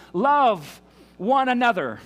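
slow, loud and high, each word leaned on; emphatic command. Acted. Preacher voicing Jesus' final command to his disciples, slow and emphatic. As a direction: deliver it as the one thing that matters.

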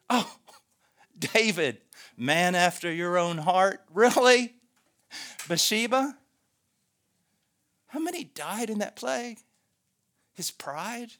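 loud disbelief, easing into pointed questions; railing accuser. Acted. Accuser questions David as man after God's heart, railing. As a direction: challenge God in mocking outrage. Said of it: "a railing in their voice".

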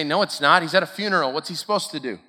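lightly acted, dismissive rebuttal; objecting listener. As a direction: voice a sceptic pushing back on the obvious. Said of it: "And you say".

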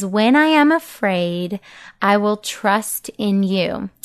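slow, careful recitation. Shown as a demonstration. Mom reciting the verse slowly for parents. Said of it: "Psalm fifty-six three is".

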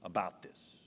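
slow, low, measured command; strict charge. Retold or imitated. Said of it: "he strictly charged them".

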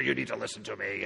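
low, fast, rough-textured warning. Shown as a demonstration. Pastor showing texture to the congregation, rough low voice. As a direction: give the words grit and texture. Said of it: "I can give it a little texture".

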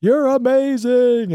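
high, loud, slow gushing affection; dragged-out loud declaration of love; gushing to a pylon. Retold or imitated. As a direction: pour adoration onto the pylon. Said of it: "I pick up those pylons and say".

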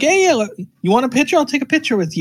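mock hustler rushing the fan; fast carny hustle. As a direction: rattle it off like a pushy carny. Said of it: "he'll be like".

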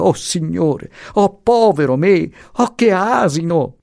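high, self-reproaching wail; dismayed lament. Acted. The professor lamenting his blunder, high and dismayed. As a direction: moan at your own foolishness. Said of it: "costernato andava ripetendo".

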